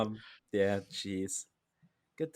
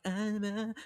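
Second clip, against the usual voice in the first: edgy breathy anime voice; 10 semitones higher, 5 dB quieter, slower than usual. Retold or imitated. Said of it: "What, what was that again?".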